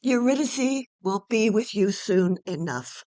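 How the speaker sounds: usual speaking voice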